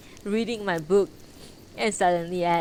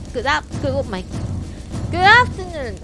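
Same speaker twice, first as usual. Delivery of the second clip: cute anime streamer; 5 semitones higher, 6 dB louder than usual. Real, not acted. Greets raiders loudly.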